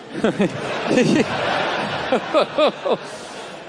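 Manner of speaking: imitated uneasy chuckles with gaps; mock nervous giggling; nervous laugh. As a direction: laugh nervously, in small awkward bursts. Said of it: "laughing nervously".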